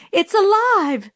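shrill high shriek of terror; scream. A narrator's reading. Teacher shrieks at the class about the creature, screaming in horror. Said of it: "she screamed".

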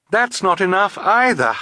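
put-on high, alarmed girl's voice; urgent alarm. A narrator's reading. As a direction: call out that the plan is failing. Violet sees the plan failing.

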